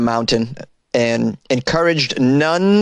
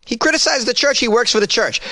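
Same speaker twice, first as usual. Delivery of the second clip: pitched-up disbelief on criticized; incredulous; 9 semitones higher than usual. Real, not acted. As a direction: stress criticized, high and incredulous. Incredulous repeat.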